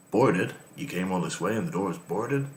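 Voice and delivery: bad put-on American accent. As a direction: read it in a poor American accent. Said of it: "That's probably my worst American accent".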